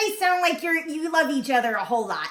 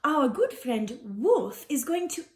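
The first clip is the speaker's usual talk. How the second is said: gushing hostess. Acted.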